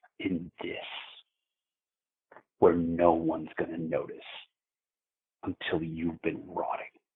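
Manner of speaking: mock condescending, contemptuous tone. Retelling a stranger's words, imitating a condescending, terrible tone. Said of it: "that terrible tone, like, he was talking to".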